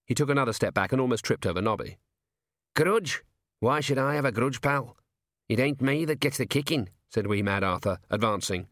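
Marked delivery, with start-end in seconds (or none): 2.7-6.9 scrappy gnome voice, higher on grudge; indignant gnome. Acted. Gnome rounding on the sergeant, indignant. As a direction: bristle back at him.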